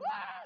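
imitated shriek at cold water; high startled yelp. Leaders doused with cold water, high mock yelp. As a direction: mimic a high cry of shock.

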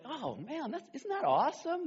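playful mock wonder; mock awe. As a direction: gush like you're dazzled by it. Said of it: "you chuckle and go".

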